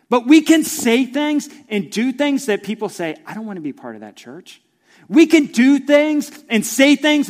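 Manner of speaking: loud, high, driving sermon voice; preaching at full force. Acted. Pastor urging the church about cursing, loud and high.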